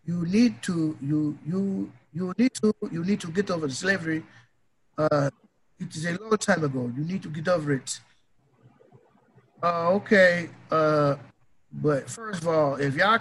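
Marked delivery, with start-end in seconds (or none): 0.0-8.0 a lightly put-on African accent, mocking; imitating an African scolding African Americans, light accent. Podcaster mocking Akon-style critics in a light African accent. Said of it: "let me use my African accent".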